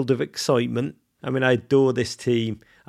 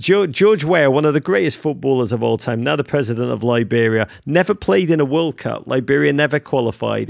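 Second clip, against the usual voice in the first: excited; 4 semitones higher, 8 dB louder than usual. Real, not acted. Gushing over Weah's story.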